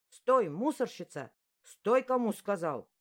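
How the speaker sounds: loud, slow shouted command; angry call after her. Acted. Bully shouting after the fleeing girl, loud and slow. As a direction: bark her to a stop across the hall. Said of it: "догнал оклик".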